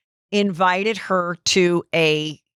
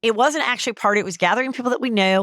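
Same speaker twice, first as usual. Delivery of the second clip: higher bright mock TikTok voice; mocking the girl's video; 4 semitones higher, faster than usual. Retelling the viral girl's TikTok, mocking her higher voice. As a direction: imitate the girl starting her video, high and chirpy. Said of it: "that girl's like".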